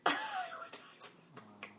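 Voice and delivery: tiny, very soft squeak of a voice; faint, choked-up gushing; overcome gushing. Pretend. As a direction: squeeze it out almost without voice. Overcome, repeats the line, voice gone.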